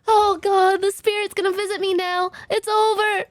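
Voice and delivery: hammed-up scared doom-saying; mock panic. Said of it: "getting really scared".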